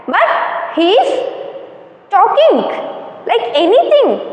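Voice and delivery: acted Sultan's exasperation, lightly done; angry Sultan. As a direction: complain crossly as the fed-up Sultan. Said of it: "So the Sultan become very angry".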